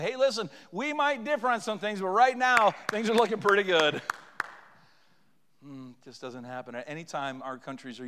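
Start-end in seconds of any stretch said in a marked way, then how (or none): 0.0-4.0 loud, emphatic proclamation; rally a divided crowd; forceful, raised pulpit voice; rallying appeal. Acted. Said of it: "all would rise up and say".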